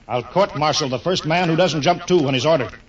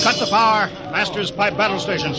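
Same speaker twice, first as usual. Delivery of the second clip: urgent order; 5 semitones higher than usual. Acted. Captain orders during the crash landing.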